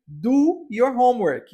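said slowly as a model; slow model phrase. Shown as a demonstration. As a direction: spell out do your homework slowly for students. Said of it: "o que nós chamamos em inglês de homework". (frase dita devagar como modelo)

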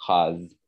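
"rose" with an open a-like vowel; southern "C'est rose" with raz for rose; southern pronunciation. Shown as a demonstration. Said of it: "Et non rose".

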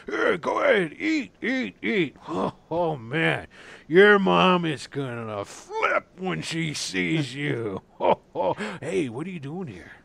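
pushing food on a welcome guest; eager barkeep. Acted. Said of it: "barkeep serves food".

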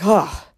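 acted "oh" of sudden comfort; relieved sigh. Baby reunited with the parent, mock relieved sigh. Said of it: "instantly connected to something comforting".

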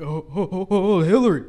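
a flustered Santa stumbling over his ho-hos. Retold or imitated. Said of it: "Santa will just be, like, flustered".

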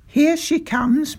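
slow, high announcing call. A narrator's reading. Father pointing down the road to someone coming, calling out. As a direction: call it out drawn-out and excited. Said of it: "my father called out".

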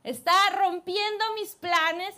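angry king. Acted. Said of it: "se enfurece".

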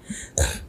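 small soft burp. Real, not acted. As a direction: let out a quick burp. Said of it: "Sorry, I just burped".

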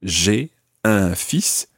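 slowed, each word clear; deliberate teaching pace; slow demo. Shown as a demonstration. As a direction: spell it out slowly for learners. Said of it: "almost sounds just like two syllables".

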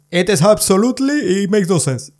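a bit of a mock Indian accent, sliding back to normal. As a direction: try out an Indian English accent, half-hearted. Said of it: "el acento es".

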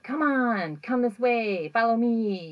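high, coaxing come-hither call; beckoning ghost. Retold or imitated. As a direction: lure them along playfully. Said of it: "you know, kind of gesture".

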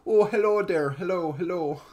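mock Midwestern greeting; imitation of a proper Midwest accent. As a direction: put on a folksy Midwest accent. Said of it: "like, a proper Midwest".

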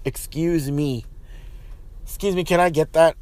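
polite demo. Shown as a demonstration. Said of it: "Use your words".

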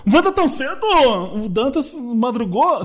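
high, astonished, slowing at the end; mock listener surprised at dawn. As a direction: act amazed the show is out so early. Listener surprised by early show.

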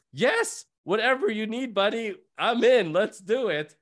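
eager yes. Retold or imitated. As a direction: jump at the offer with relief.

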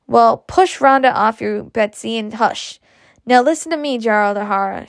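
mildly bossy retort. Acted. Mother hushes her child and turns on Gerald, mildly retorting. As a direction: put them both in their place, understated. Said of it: "she retorted".

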